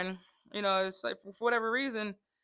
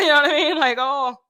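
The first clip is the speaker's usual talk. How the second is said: laughing; 6 semitones higher, 13 dB louder than usual. Real, not acted. Laughing excited outburst.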